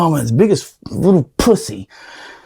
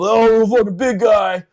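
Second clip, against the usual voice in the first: mocking taunt; 4 semitones higher than usual. Drill instructors taunting him.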